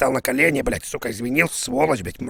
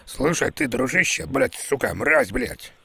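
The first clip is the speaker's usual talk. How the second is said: thug boss Zhmyshenko. Acted. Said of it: "Жмышенко, блядь, Альберт".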